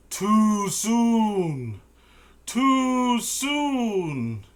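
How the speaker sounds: very high, loud, strange voice; Naratog's shrill cry. Acted. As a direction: shriek it like a panicked creature. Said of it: "Neurotog says".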